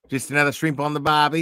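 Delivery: quick mock Australian catchphrase; Aussie accent. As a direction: put on a light Aussie accent. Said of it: "you're close to an Aussie accent".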